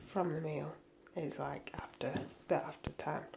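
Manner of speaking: hushed late-night whisper; breathy whispered aside. Real, not acted. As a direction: keep it to a whisper so nobody wakes. Late night, talking quietly.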